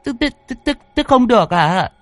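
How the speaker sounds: put-on high, flustered old mother stuttering; stammering old woman. A narrator's reading. Old mother stammering at her son, high and flustered. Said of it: "Bà ú ớ".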